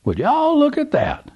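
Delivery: put-on high, slow, awed old man voice; breathless. A narrator's reading. Old man stunned inside the truck, breathless. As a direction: marvel at it breathlessly. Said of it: "in a breathless tone".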